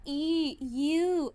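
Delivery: drawn-out "ई, यू" through clenched teeth; teeth together. Shown as a demonstration. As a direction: demonstrate "ई, यू" with teeth pressed together. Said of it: "ऐसे करते हो ना". (दांत भींचकर खिंचा हुआ "ई, यू")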